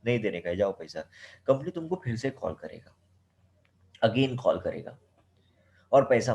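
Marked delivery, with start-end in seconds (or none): 0.0-1.0 quick, low, careless refusal; defiant brush-off. Retold or imitated. Student refusing to pay the company, quick and dismissive. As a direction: toss off the demand without caring. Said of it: "बोला".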